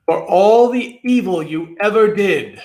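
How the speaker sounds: a touch of a grand god's voice; god's judgment. A narrator's reading. Samhain pronounces his verdict, a touch grand. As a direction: pronounce the sentence. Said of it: "said Samhain".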